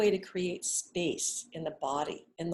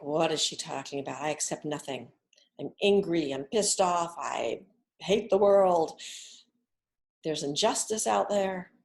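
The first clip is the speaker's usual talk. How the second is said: a skeptic's voice grows louder as the anger rises; imagined angry doubter; 2 semitones lower, 4 dB louder than usual. Pretend. Doubting student's inner voice pushing back, mock angry. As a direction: voice the inner objector, fed up. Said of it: "you might think".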